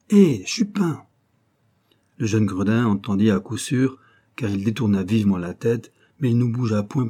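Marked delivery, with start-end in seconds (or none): 0.1-1.0 high loud hail, falling at the end; calling out. A narrator's reading. Old clerk hailing the boy again, loud high hail. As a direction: hail him again across the crowd.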